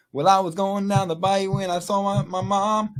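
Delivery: mock honky tonk singer, held high; honky tonk impression. Host mocking the honky tonk they hear at home, high honky tonk impression. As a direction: drone it high like a hammed-up country lyric. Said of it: "Honky tonk is like".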